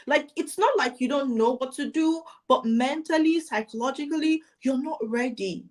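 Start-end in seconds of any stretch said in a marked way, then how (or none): none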